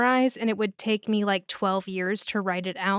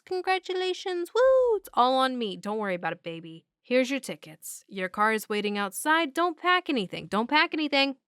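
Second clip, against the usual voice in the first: higher, falsely cheerful, hammed-up generosity; mock cheery send-off; 4 semitones higher than usual. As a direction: play the too-friendly host. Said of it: "he goes".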